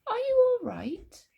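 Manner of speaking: high, slow, careful question; polite asking. A narrator's reading. George checking on floating Grandma, slow and polite. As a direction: ask gingerly, voice swooping high. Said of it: "her politely".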